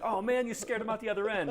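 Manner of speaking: a hint of Quagmire's high voice; lightly voiced Quagmire. Quagmire voiced in retold scene.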